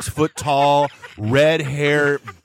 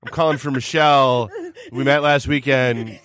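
deep-voiced roommate. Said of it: "that was not her voice".

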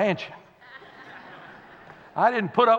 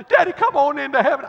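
put-on child's voice; 6 semitones higher, 8 dB louder, faster than usual.

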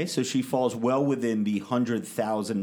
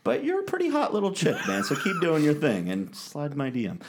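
laughing; 4 semitones higher than usual. Real, not acted. Laughing while flirting.

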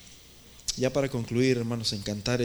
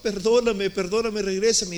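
higher, louder pleading cry of a man who lost everything; Esau's tearful plea; 6 semitones higher, 5 dB louder than usual. Retold or imitated. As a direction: beg it back, higher and louder, like Esau in tears. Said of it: "y dice que con lágrimas". (Esaú suplicando con lágrimas, más alto y fuerte)

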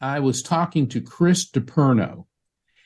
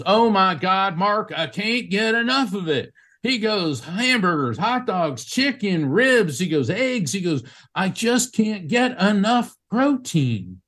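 excited craving; 7 semitones higher than usual. Retold or imitated. Calvin describes his protein cravings.

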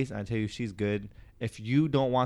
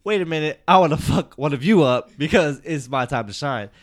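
eager inner voice; 3 semitones higher, 9 dB louder than usual. Retold or imitated. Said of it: "I'm off on the side thinking".

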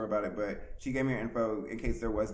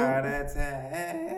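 voice cracking; 4 semitones higher, 3 dB louder, much slower than usual. Real, not acted. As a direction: voice cracks high on the words. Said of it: "Yeah, my voice just cracked".

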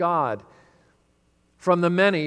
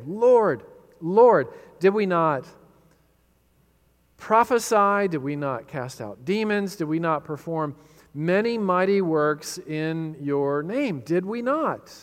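pleading cry; slower than usual. Acted. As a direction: cry out Lord, Lord like a desperate follower. Pleading false disciples quoted in sermon.

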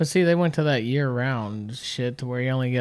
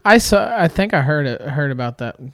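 imitating her voice; 7 dB louder than usual. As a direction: do her voice, bright and loud. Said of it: "Jesus, I sound like her".

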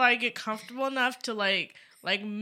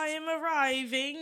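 town crier; 3 semitones higher than usual. Pretend. Crier bit continues.

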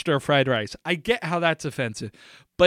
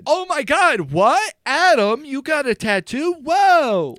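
high-pitched, overdone shock; feigned amazement; 9 semitones higher, 4 dB louder than usual. Pretend. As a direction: gush in exaggerated surprise at the news. Feigned amazement at announced tattoo news.

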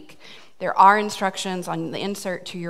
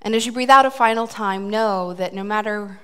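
calm guided breathing; guided meditation. Acted. Leads breathing exercise.

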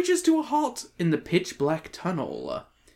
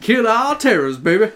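laughing shout; 4 semitones higher, 6 dB louder than usual. Real, not acted. Laughing joke battle cry.

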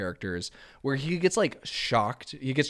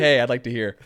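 livelier version; 5 dB louder than usual. Shown as a demonstration. Suggesting a better reading to friends, louder and friendly. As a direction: say it louder with a friendly "Hey" up front. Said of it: "why didn't you just, like, say".

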